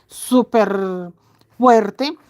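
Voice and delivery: lightly imitated thick, strong male voice; slow, drawn-out imitation of a big strong voice; gruff husband voice. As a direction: mimic his heavy, powerful voice a little. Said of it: "tiene una voz gruesa".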